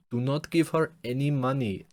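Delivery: high, loud mock warning; parting warning. Passing man warns tourists about a scammer, high mock warning.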